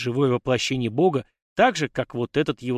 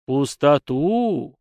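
slow, booming god voice echoing inside; a wind god's resonant voice; echoing ethereal energy being; 4 dB louder, much slower than usual. Acted. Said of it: "раздался гулкий голос".

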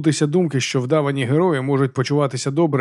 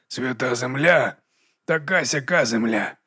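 grudging; slower than usual. Acted. Jacob grudging.

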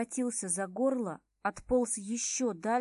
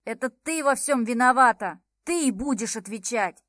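loud, jabbing blame; angry accusation; 8 dB louder than usual. Acted. Viktor yelling accusations at the heroine, loud and angry. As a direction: point the finger and yell.

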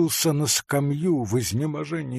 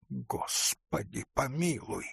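hushed, much softer plea; whispered prayer; 2 semitones higher, 10 dB quieter than usual. A narrator's reading. Paling forester prays at a cry of robbery, whispering. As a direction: whisper it in dread. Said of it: "прошептал лесник".

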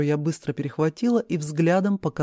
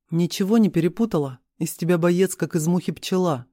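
ordinary delivery, nothing marked

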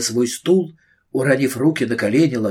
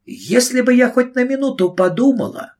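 menacing witch; 11 semitones higher than usual. Acted. Witch advancing on Carrie.

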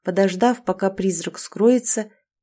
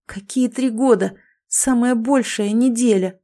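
agitated disbelief; 4 semitones higher than usual. Acted. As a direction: protest in shock. Prince in disbelief.

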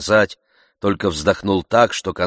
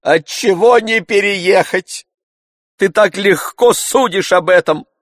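master's higher, louder tirade; pathetic lecture; 13 semitones higher, 8 dB louder than usual. A narrator's reading. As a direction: lecture him theatrically.

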